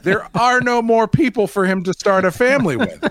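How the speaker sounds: high, loud exasperated rant; mock outrage. Acted exasperated inner reaction to plot.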